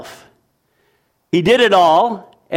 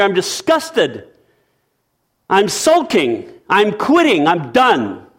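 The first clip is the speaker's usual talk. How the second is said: angry sulking; 5 semitones higher than usual. Acted. Listener's sulking reply to God.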